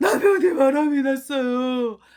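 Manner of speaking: loud slow whiny sobbing.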